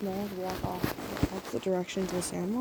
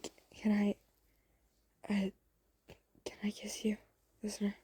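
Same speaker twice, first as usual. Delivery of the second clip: nervous ask; 4 dB quieter, faster than usual. Acted. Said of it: "verbally confirm".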